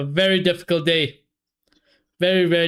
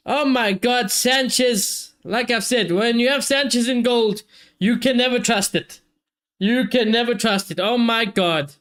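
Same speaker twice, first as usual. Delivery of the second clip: exasperated; 5 semitones higher than usual. Real, not acted. Keeper error, exasperated.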